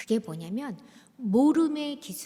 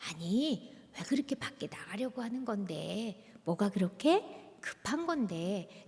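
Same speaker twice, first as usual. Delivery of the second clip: put-on softer, calm question to the child; gentle asking; 2 semitones lower, 6 dB quieter than usual. Shown as a demonstration. Mother calmly asking her child why he is in a hurry, softer. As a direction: ask quietly, with real curiosity. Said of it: "멈추고 물어보는 거예요".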